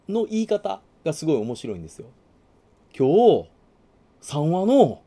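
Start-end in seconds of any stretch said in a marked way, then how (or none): 3.0-5.0 rising question tune at the end; 今日、三話の with pitch rising on 三話の; uptalk. Shown as a demonstration. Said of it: "語尾を上げることによって疑問形になるんですよね".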